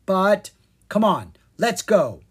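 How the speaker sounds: quick, high and loud urging; eager urging. A narrator's reading. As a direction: push him to hurry up.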